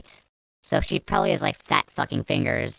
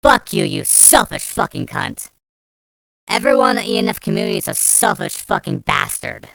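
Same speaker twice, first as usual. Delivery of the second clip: real angry rant; 3 semitones higher than usual. Real, not acted. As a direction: hurl it at her. Ranting at Limbros.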